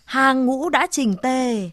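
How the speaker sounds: long drawn-out call. Acted. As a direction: stretch each word to command the procession. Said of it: "gọi dài giọng".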